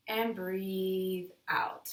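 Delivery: slow whispered breathe out; whispered exhale cue. Shown as a demonstration.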